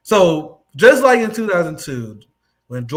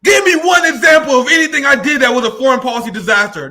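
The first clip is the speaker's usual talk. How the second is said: mock Ted Cruz shout; 2 semitones higher, 5 dB louder than usual. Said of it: "So he like".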